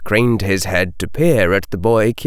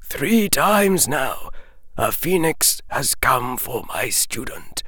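put-on far older voice; 9 semitones higher than usual. A narrator's reading. Dumbledore telling Harry of lost students, aged and grieving. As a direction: sound ancient and weary, as if centuries old. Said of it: "his voice sounding far older than his normal tones".

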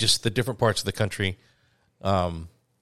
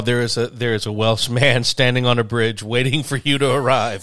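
laughing. Real, not acted. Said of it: "teasing joke, laughing".

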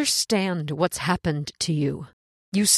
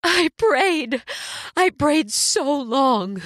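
tearful pleading; 2 semitones higher than usual. Acted. Woman overcome, pleading.

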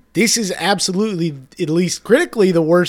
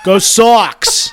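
put-on loud, higher Boston-accented cheer; mock Boston fan; 5 semitones higher, 6 dB louder than usual. Boston student posing for a photo with the kangaroo, mock Boston cheer. Playing Boston Red Sox fans.

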